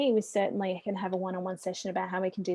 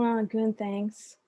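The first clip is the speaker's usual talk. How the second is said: mock a lukewarm answer to a cold caller; polite but unwelcoming; unenthusiastic reply; much slower than usual. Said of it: "that's the kind of tone".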